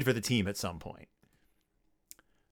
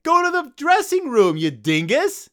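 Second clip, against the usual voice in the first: high, loud yelling voice, shooing him off; loud high scolding yell; mock yell; 13 semitones higher, 6 dB louder than usual. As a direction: bark it like an angry usher. Mascot being yelled off.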